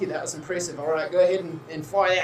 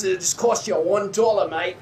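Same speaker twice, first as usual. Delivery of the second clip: Australian carny. Acted. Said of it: "And he says".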